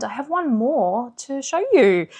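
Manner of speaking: a bit breathless from talking fast; out of breath. Real, not acted. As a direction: talk while catching your breath. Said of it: "I'm out of breath from talking so fast".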